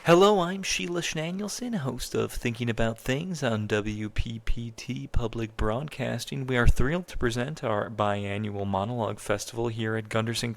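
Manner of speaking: mock public-broadcasting emcee; radio host announcer. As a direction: introduce the live show as its radio host.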